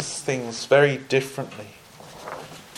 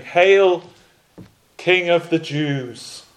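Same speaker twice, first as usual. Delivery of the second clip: raised, mock-reverent salute, drawn out; mocking hail; 4 semitones higher, slower than usual. Soldiers bowing the knee before Jesus, mocking. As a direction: hail him in slow mockery. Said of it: "mocked him".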